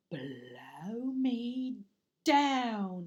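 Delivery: loud gruff exclamation; surprised burglar. Acted. Burglar finding something in the box, astonished. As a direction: blurt it out in amazement.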